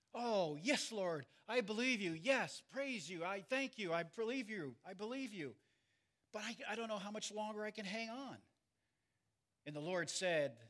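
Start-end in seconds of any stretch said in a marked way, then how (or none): 0.1-8.4 higher, pleading, clinging on; desperate pleading. Retold or imitated. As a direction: beg while barely hanging on. Man dangling answers God.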